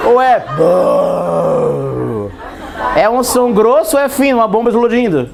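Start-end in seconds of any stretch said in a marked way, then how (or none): 0.1-2.3 bum dropped low and very slow; deep boom. Shown as a demonstration. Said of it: "é piu". (bum grave e bem lento)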